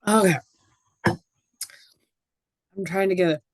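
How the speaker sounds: slow, strained whisper; struggling to get the voice out; hoarse voice. Real, not acted. Presenter losing her voice mid-talk, hoarse whisper. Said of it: "my voice is a little hoarse".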